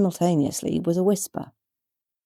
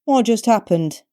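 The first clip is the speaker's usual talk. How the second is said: mild bewilderment; 7 semitones higher, 3 dB louder than usual. A narrator's reading. Contact puzzled at collapse.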